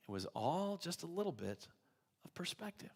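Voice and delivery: a hushed, intimate point; whispered. Real, not acted. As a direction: whisper the punchline softly. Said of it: "whispered moral".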